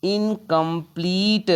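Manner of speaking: इनकम्प्लीट said slowly, in-kəm-pleet with a long ee; model word. Shown as a demonstration. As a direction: stretch इनकम्प्लीट, stress the long ee at the end. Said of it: "बड़ी होता है".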